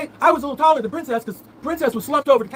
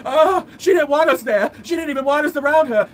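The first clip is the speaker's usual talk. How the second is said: sneering impression of her grievance; mocking whiny quote; 4 semitones higher, 3 dB louder than usual. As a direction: parrot her complaint back mockingly. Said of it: "But she's gonna say".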